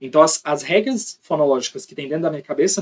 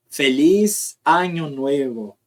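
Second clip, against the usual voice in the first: slow Spanish-accented Feliz año nuevo; much slower than usual. Shown as a demonstration. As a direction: drawl the phrase like a Spanish speaker. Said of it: "Eles falam año".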